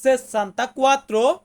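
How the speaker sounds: slow, syllable by syllable; slow demo. Shown as a demonstration. Teacher sounds out an Italian number for students, slowly. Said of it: "Italian ভাষাতে বলবো".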